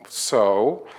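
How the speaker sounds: retold unimpressed retort, drawn out. Friend baffled by tears over mascara, unimpressed. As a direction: act out not getting the fuss.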